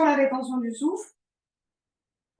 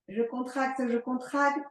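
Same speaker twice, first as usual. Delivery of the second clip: strained voice, breath locked; holding breath; 2 semitones higher, 3 dB quieter than usual. Real, not acted. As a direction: speak on a held breath, tensed. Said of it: "Je bloque mon souffle". (souffle retenu, voix crispée)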